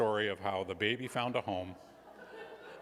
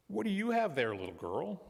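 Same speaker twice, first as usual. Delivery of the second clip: truck driver; 9 semitones higher than usual. A narrator's reading. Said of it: "the man driving the dump truck".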